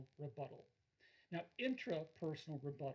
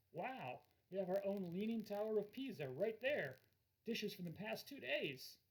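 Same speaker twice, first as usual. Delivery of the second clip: joking; 3 semitones higher than usual. Shown as a demonstration. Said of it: "to be humorous about it".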